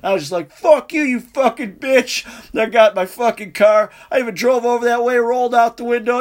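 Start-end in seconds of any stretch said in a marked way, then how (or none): 0.5-2.2 mock angry cursing. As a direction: re-enact telling off an ex with relish. Retold cursing at bowling ball.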